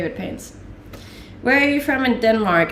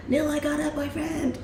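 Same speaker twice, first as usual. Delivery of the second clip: mock stream title; 5 semitones higher, 6 dB quieter than usual. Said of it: "it'll be the title of my stream".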